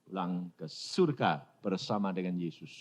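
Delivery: put-on soft, fading child's answer; weak child's voice. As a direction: answer faintly like a sick child. Dying child answers softly. (suara anak lemah dan pelan)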